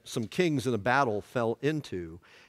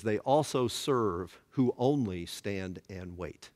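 quoting Milton; 5 semitones lower, slower than usual. Retold or imitated. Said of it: "where he says".

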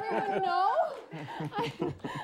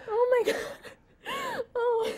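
snotty crying; 8 semitones higher than usual. Real, not acted. Anchor crying after proposal.

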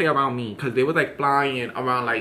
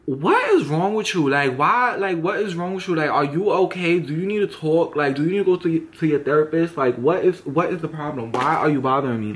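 exasperated confrontation. Retold or imitated. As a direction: demand what his problem is. Confronting staring man.

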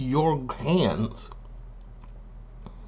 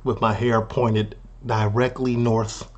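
lower, quieter parody of an earnest cook; mock proud cook; 4 semitones lower, 4 dB quieter than usual. Cook thanking the chef for noticing, mock proud. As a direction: lightly imitate a cook humbly thanking the chef. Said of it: "He was beyond proud".

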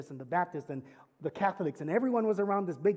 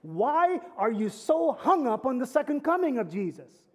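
challenging question; 5 semitones higher, 5 dB louder than usual. Retold or imitated. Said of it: "their first question was".

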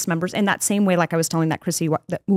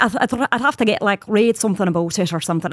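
Irish accent. Shown as a demonstration. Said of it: "I'm going in and out of an Irish accent".

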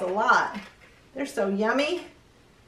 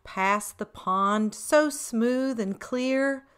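put-on reading to children; slower than usual. A narrator's reading. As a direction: read the verse gently to little ones. Reads rhyming verse.

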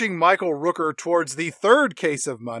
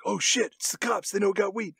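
doped-up snowboarder; 7 dB quieter than usual. Retold or imitated. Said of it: "our two doped up snowboarders".

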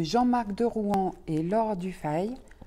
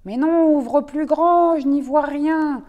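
insistent; 4 semitones higher, 6 dB louder than usual. Acted. Rabbit insists, louder.

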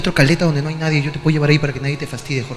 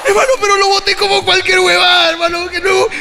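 worked-up retelling; 12 semitones higher than usual. Retold or imitated. Worked-up retelling of throwing friend aside.

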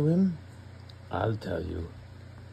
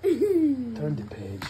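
slow exasperated command; 11 semitones higher, much slower than usual. Real, not acted. Dad impatient with slow page.

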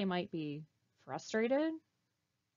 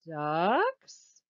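duck puppet voice; 4 semitones lower, 7 dB louder than usual. Acted. Duck puppet calls hopefully.

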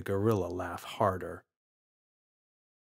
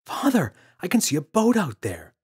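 put-on child voice; 8 semitones higher, 4 dB louder than usual. Boy calling to father.

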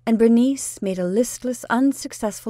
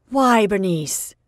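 slower, bewildered question with the name; aunt repeating her question, bewildered and still dismayed; 6 dB louder, slower than usual. Acted. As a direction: ask her why, more puzzled than shocked. Aunt asks again, more subdued.

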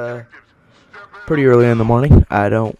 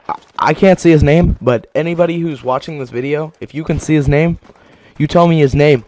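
worked up rant; 3 semitones higher than usual. Real, not acted. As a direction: vent furiously at the cheater. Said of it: "I got a little worked up there".

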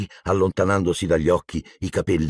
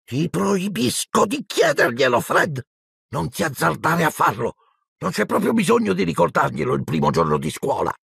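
stern, high-pitched prohibition; serious maternal admonishment; grave motherly warning; 10 semitones higher than usual. A narrator's reading. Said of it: "assunse un'aria molto grave".

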